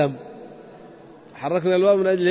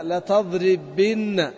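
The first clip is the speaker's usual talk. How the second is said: slow model pronunciation; much slower than usual. Shown as a demonstration. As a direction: draw out لتضربن slowly, falling at the end. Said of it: "على". (نطق بطيء جدا لكلمة لتضربن)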